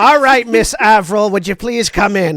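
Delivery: lightly brassy Boston-Jersey mother; a hint of Jersey mom hostess. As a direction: usher a guest in with a Boston-Jersey accent. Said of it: "Boston Jersey mom".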